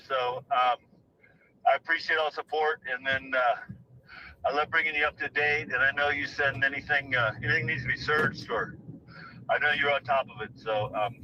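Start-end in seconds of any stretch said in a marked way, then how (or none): 4.5-11.2 winded from climbing a hill; breathless while walking uphill; out of breath. Real, not acted. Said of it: "sorry I'm out of breath. Uh, going up this hill".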